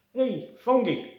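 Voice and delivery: very high, slow and loud calling; dolphin voice. Acted. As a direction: call out like a squeaky dolphin. Dolphin Flipper calls Fungi.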